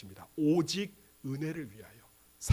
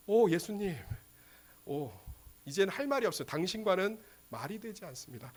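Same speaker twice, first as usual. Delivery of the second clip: soft, halting sigh of giving up; quietly defeated, acted; resigned disappointment; 3 semitones higher, 4 dB quieter than usual. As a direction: let the voice sink as if nothing is left to say. Voices a resigned, disappointed believer.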